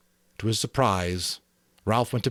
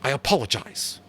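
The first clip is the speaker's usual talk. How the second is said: put-on stiff, formal boy's voice a little higher; drawn-up apology; 6 semitones higher than usual. A narrator's reading. Jack stiffly apologising to Ralph. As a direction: draw yourself up and say it. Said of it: "he drew himself up".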